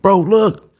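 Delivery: high, urgent retold plea; urgent insistence. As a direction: insist to a doubter, voice jumping up. Insisting he is shot, disbelieved.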